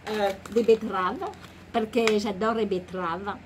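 vaguely Italian-sounding put-on accent; wobbly, improvised Italian-style accent; mock Italian accent. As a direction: play at an Italian accent in French. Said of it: "ça fait un peu italien".

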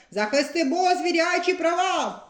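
значно вище, як дзвінке гасло; дівоче гасло на мітингу; гасло Снігуроньки. A narrator's reading. Снігуронька з транспарантом. (Снігуронька вигукує гасло значно вище)

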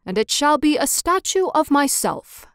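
a hint of a vain mayor; mayor's boast. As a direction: claim the honour for himself. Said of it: "he said".

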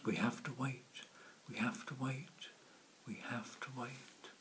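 calm the chick, drifting into a hush; fading to a whisper. Acted. Mother penguin fading to whisper.

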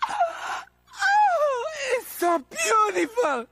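greedy villain gushing over plutonium; swooning. Acted. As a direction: swoon over the prize, voice soaring.

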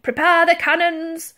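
loud, high admiral's order; commanding shout. A narrator's reading. Admiral orders the crew to prepare cannons, commanding. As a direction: call the order across the deck.

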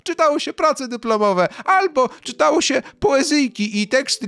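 sarcastic mockery. Mocking a professor who lets students run class, high sarcastic voice. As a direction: pitch it way up and mock the lazy professor.

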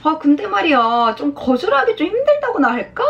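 put-on coy girlish excuse, pitch swinging up; mock-girlish hesitant whine; playful schoolgirl. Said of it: "여고생처럼 이렇게 장난처럼 이렇게 한".

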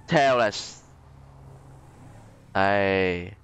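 normal talking voice

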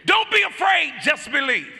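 loud, high proclaiming of Jesus's words. Retold or imitated. A hint of Jesus telling Jairus not to fear.

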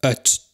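Öt with a glottal stop before the vowel; Öt articulated as a model word; demo pronunciation. Shown as a demonstration. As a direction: say Öt slowly and clearly as one syllable. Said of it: "am Ende einer Silbe stehen".

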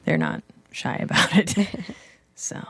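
usual speaking voice

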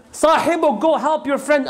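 high-pitched plea to go help; retold urgent call. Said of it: "People yelled out loud".

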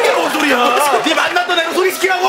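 high, exasperated demand; insistent demand. Acted. Comedian demanding partner introduce the one he dated, insistent. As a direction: insist as if stating the obvious, exasperated.

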